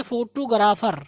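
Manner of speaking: फोटोग्राफर as "fo-too-ga-raa-far"; local mispronunciation. Shown as a demonstration. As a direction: break up the "gr" in फोटोग्राफर, long "aa". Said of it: "इसको हम पढ़ते हैं". (फोटोग्राफर को देसी ढंग से "फोटूगराफर")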